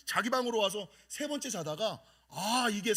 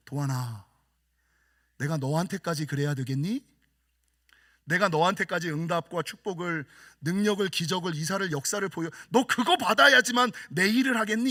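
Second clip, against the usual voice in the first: lower, gently rebuking; God's voice; 3 semitones lower, 4 dB louder than usual. Retold or imitated. God asking the pastor again, lower. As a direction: speak as God, low, then firmer. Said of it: "이런 음성을".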